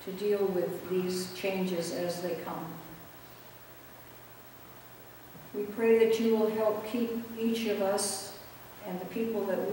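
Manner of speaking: measured, understated pastoral prayer; public prayer. Real, not acted. Pastor asks God's presence with the congregation, prayerful. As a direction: pray aloud for the congregation, pausing between petitions.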